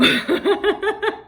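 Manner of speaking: bright laughter; high laugh. Real, not acted. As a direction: burst out laughing.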